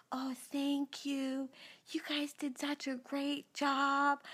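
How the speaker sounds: a lightly voiced polite pastor; Pastor Bay mode. Husband thanking the dental staff, gentle pastor tone. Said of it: "in Pastor Bay mode".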